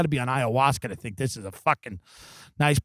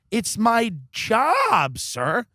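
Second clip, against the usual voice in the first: mock-indignant, drawn-out and higher; indignant protest; 6 semitones higher, much slower than usual. Comedian answering man who called cops, mock indignation. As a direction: stretch out the protest in mock outrage.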